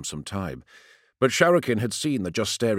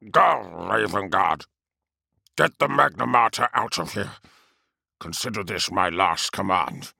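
solemn command. Acted. Captain's final order.

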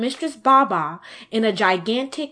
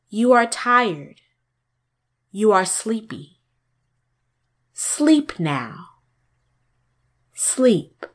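hypnotist; slower than usual. Acted. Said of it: "said the face".

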